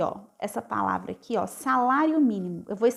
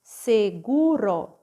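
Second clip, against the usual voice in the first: slow reading; 4 dB louder, much slower than usual. Shown as a demonstration. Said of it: "ró".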